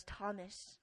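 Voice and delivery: hushed and gentle, like calming a frightened friend; gentle whisper. Acted. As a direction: whisper it tenderly, barely voiced. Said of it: "ever so gently and he says".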